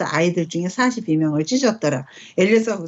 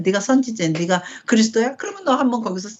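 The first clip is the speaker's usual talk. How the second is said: mocking taunt; 2 semitones higher than usual. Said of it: "막 이렇게 조롱했었다는 거야".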